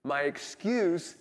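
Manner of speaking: slow, drawn-out chant of the phrase; slow group recital. Shown as a demonstration. Congregation repeating the phrase together, slow chant. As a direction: say it together on the count. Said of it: "One, two".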